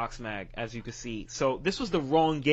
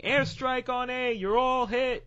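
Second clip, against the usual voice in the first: higher-pitched imitation of a yelling ref; high mock ref yell; 12 semitones higher, 3 dB louder than usual. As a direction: play a ref calling it out. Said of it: "a ref running up to me yelling".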